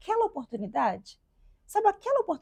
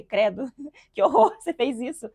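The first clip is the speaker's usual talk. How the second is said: half-laughing mock horror, a bit louder; laughing in disbelief; 7 dB louder than usual. Mother mocks her past self, laughing in disbelief. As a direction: laugh it off at your old self.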